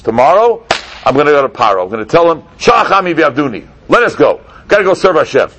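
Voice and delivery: loud, high, fired-up announcement; rally the people with conviction; rousing leader. Acted. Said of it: "he says to Klal Yisrael like this".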